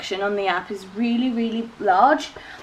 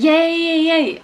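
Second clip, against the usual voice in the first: excited cheer; 4 semitones higher than usual. Retold or imitated. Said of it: "I was like".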